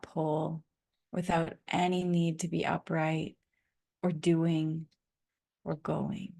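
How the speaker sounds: calm meditation voice with long pauses; guided meditation. Real, not acted. Guide leading listeners to land into rest, calm meditation voice. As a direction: guide them gently into rest, lingering between phrases.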